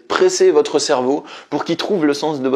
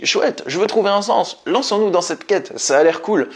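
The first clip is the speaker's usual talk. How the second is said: higher, a hint of an excited child; eager inner child; 4 semitones higher than usual. The inner child urging you on, higher and lightly childlike. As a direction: lightly voice a keen kid. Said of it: "L'enfant, il vous dit".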